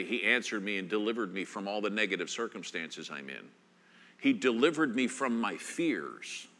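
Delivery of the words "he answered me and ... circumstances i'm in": wry aside of what the verse did not say; mock paraphrase. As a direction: toss off the wrong version quickly. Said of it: "I'm kinda glad he didn't say".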